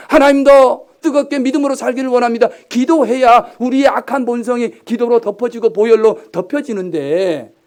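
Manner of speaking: loud, high impassioned prayer; fervent preaching. Acted. Pastor modelling daily prayer for the congregation, fervent. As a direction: cry out to God with full force.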